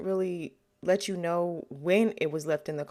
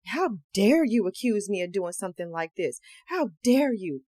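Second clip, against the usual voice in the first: indignant, rising to a louder how dare you; mock offended; 4 dB louder than usual. Suspect acting offended at the detective. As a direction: play the wrongly accused man. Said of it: "trying to come off like he's offended".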